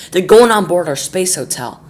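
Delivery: excited shout. Acted. President excited at screen.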